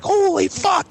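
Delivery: very high mock-alarmed cry; panicked. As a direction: imitate people scattering in fright. Imitates scattering dudes' alarm.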